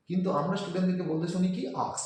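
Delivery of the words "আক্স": আক্স said as "aks", k before s; the mistaken আক্স, swapping s and k; wrong "aks". Shown as a demonstration. Teacher repeats students' wrong আক্স. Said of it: "আক্স not".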